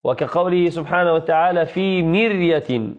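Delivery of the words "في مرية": slow "في مرية" with a thin ر; careful, stretched "مرية", unvelarized r after i; light ra. Shown as a demonstration. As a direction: draw out "مرية" as mir-ya, r kept light. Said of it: "فترقق".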